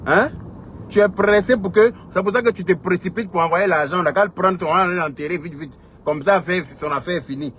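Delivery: worked-up scolding that eases at the end; indignant challenge. Real, not acted. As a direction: confront them, voice riding high.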